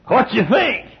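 fishing for praise; high hopeful ask; proud friend. Retold or imitated. Friend asks about his car.

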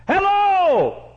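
high, loud call to wake the house; shouted hello in the night. Acted. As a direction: holler up at the window. Calling out at night to wake neighbour.

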